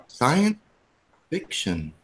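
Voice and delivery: polished flight attendant announcement; stewardess voice. Shown as a demonstration. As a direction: announce it like cabin crew. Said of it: "That's my stewardess voice right there".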